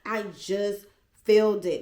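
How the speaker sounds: high and loud, protesting; insistent outburst. Retold or imitated. Insisting to the babysitter about the pills, loud and high. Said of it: "And I'm like".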